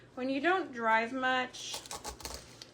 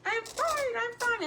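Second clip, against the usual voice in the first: high, strained mock "I'm fine"; a lightly voiced grieving mom insisting she's fine; imitating a tense mom; 12 semitones higher than usual. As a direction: squeak out "I'm fine" like a mother barely holding it together. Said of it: "the mom in Steel Magnolias and how she's like".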